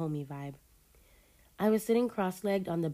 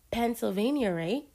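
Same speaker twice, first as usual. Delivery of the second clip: unsure, guessing; uncertain; 5 semitones higher, 3 dB louder than usual. Acted. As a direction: ask it half sure.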